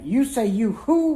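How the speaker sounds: high, laughing disbelief; laughing, half-shouted question. Retold or imitated. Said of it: "And I'm still saying".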